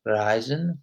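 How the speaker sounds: "reisen" with ei open, tongue back; slow model of "reisen", mouth opening wide; German ei. Shown as a demonstration. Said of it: "So when you say reisen".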